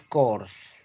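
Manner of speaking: Corse said "kors", final E silent; French Corse in one syllable; French pronunciation. Shown as a demonstration. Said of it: "en francés es".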